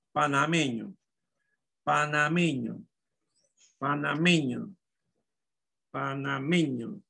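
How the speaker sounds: Panameño repeated evenly, ME lifted each time; pa-na-ME-ño, dictated with weight on third syllable; stress on ME. Shown as a demonstration. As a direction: lean on ME in Panameño, then fall. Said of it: "Mayor fuerza de voz".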